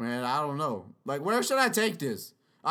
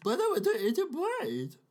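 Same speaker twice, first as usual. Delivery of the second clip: higher, laughing zombie whine; higher giggly put-on zombie; 7 semitones higher than usual.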